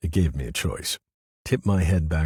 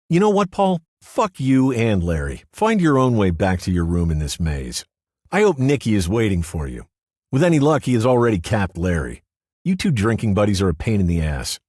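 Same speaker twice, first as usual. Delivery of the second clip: much higher, louder angry female voice; furious outburst; 6 semitones higher, 7 dB louder than usual. Acted. Riley cursing out Paul before storming off, angry and loud. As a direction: lash out and leave.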